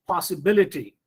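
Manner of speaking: possiBILity, with BIL strongest; possibility modelled with the peak on BIL; third-from-end stress. Shown as a demonstration. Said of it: "put stress on the third syllable".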